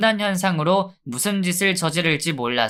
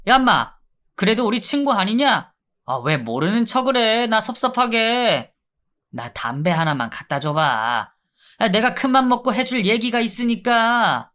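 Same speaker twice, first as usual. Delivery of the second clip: higher, overfamiliar convict voice; wheedling inmate; 4 semitones higher than usual. Acted. Inmate wheedling the guard for a cigarette, higher. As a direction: play a chummy thug begging a favor.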